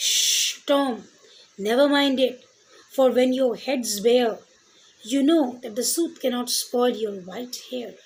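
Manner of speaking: gentle recited comfort in verse; an older sweeper hushing Tom in the poem; poem recitation. Acted. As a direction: soothe the little boy line by line.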